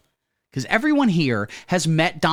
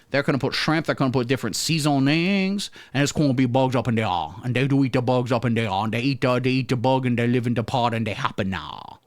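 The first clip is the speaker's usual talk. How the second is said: Cajun Klaus Schwab. Acted. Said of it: "a new character I'm developing".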